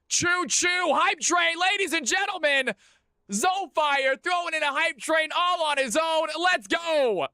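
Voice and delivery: hoarse sleep deprived hype. Real, not acted. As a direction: pump up the crowd, voice cracking high. Celebrating a hype train.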